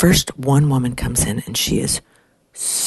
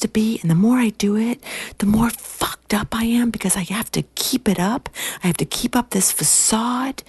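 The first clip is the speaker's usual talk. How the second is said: high-pitched imitation of a tearful wail; mock sobbing; 9 semitones higher than usual. Young woman confessing to older colleague, mock sobbing. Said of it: "she's, like, sobbing".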